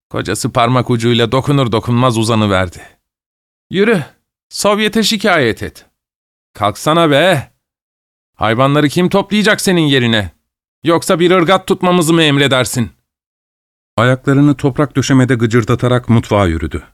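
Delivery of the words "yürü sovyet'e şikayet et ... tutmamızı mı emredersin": high mocking jeers; husband jeers at his wife on the floor; sneering taunt. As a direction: taunt her cruelly.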